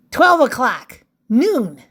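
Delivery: punchy call of the hour; crisp announced clock time; time announcement. Acted. Calls out story time.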